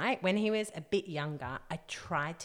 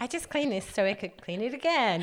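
raised, fed-up voice; exasperated mum; 6 semitones higher, 5 dB louder than usual. Retold or imitated. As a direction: sigh it out, sick of cleaning. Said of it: "You're like".

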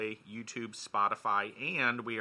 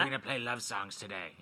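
lightly imitating a radio host; Delilah impression. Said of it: "imitate her voice".

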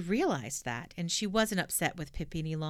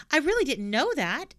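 sorrowful; 8 semitones higher, 5 dB louder than usual. Acted. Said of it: "looking very sorrowful".

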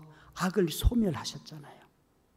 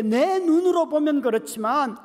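higher, building fervent preacher cry; preaching at full force; 9 semitones higher than usual. Real, not acted. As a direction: lift the congregation with rising fervour. Preaching climax. (점점 고조되는 높은 설교 외침)

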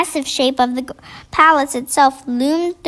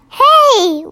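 put-on urgent girl's whisper; 11 semitones higher, 5 dB louder than usual. A narrator's reading. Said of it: "Sophie whispered".

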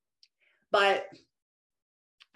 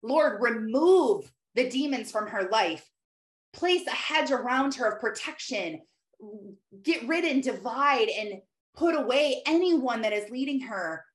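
prayer. Shown as a demonstration. Praying aloud for a friend who left church, earnest. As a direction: plead with the Lord for her. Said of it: "So I am praying for her".

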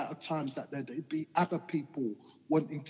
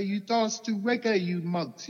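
higher, louder retold jibe; teasing banter; 6 semitones higher, 4 dB louder than usual. Recalling banter with guys at school, retold teasing. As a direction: re-enact some cheeky schoolyard banter. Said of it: "plenty of banter with".

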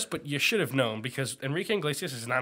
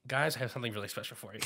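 mock teacher announcement; 4 semitones lower, 9 dB quieter, faster than usual. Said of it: "he would have said".

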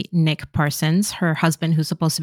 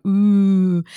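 mildly loud, drawn-out crowd "ooh"; audience ooh; 4 dB louder than usual. Retold or imitated. Audience watching her reject his kiss, imitated drawn-out ooh. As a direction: react like a scandalized audience. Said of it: "everyone in the audience is like".

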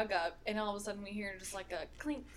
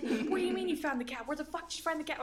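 higher, disbelieving mom; surprised mom; 6 semitones higher than usual. Retold or imitated. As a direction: play mom shocked the cap was found. Mom stunned cap was found.

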